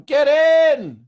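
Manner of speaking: high, loud shout from a speeding car; mock shout. Driver yelling to people from a car doing ninety, loud and high. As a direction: yell it from a car racing past. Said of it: "with your car door open going".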